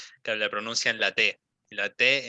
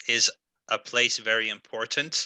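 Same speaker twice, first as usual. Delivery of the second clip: wrong word order. Shown as a demonstration. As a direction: place before very important, said as a learner's mistake. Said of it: "siempre lo dices".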